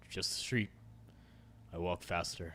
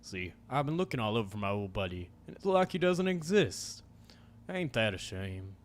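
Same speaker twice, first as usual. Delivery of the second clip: a hint of a drawling menacing cowboy; lightly voiced stranger, venom under the charm. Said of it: "my cowboy voice".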